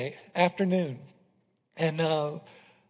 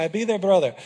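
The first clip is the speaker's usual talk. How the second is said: louder, calm and sure; Israel's calm reply; 4 dB louder, faster than usual. Retold or imitated. Pastor imitating Israel accepting the threat, calm and sure. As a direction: lightly voice Israel's steady answer. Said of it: "That's how he said it".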